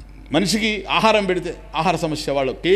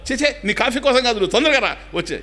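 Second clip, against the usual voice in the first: higher, mock yell of a stung husband; retold yell; 8 semitones higher than usual. Husband stung by a scorpion yells for his wife, mock yell. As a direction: call her in a half-hearted mock panic. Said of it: "ఈ లోపల అరుస్తారు".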